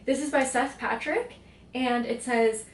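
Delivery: usual speaking voice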